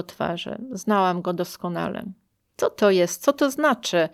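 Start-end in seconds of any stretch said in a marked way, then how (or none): 2.6-4.1 anxious tone. Retold or imitated. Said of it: "pytał takim tonem".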